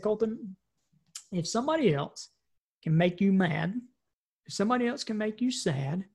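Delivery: put-on soft, patient explaining to a child; calm fatherly lesson. Father calmly teaching his son about choosing attitude, soft and patient. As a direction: gently lay out the lesson.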